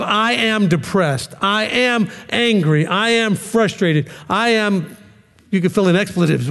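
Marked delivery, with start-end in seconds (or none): 0.0-5.0 slow, heavy "am" on each line; stress on am. Shown as a demonstration. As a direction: lean hard on "am" every time. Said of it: "you get to the place of".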